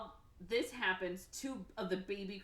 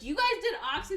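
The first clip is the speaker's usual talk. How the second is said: high, loud mock disbelief; retold shock; 10 dB louder, faster than usual. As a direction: imitate an appalled, incredulous question. Shocked at the empty bottle.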